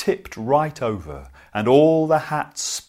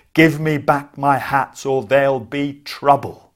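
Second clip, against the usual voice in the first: angry threat; 6 dB louder than usual. Acted. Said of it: "waved it at them".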